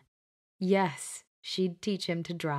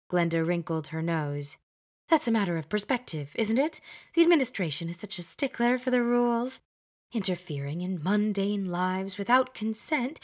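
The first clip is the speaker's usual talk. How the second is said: higher, emphatic fussy witch; bossy Glenda; 4 semitones higher than usual. Acted. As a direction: lay down the rules like a schoolmistress. Glenda explains rules.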